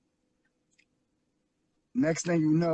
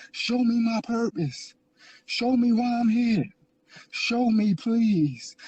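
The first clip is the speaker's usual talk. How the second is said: retold tearful plea. Man retelling his plea to God for help, desperate begging prayer. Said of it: "I cried and I said".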